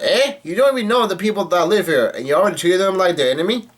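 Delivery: high-pitched, indignant retold outburst; Usopp's mock yell. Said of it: "yells out".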